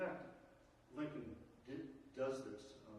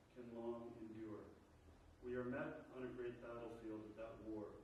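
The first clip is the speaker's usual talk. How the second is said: a teacher reading the Gettysburg Address to the class, solemn and measured; formal speech. Acted. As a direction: deliver it as a solemn address to a crowd. Reads the Gettysburg Address aloud.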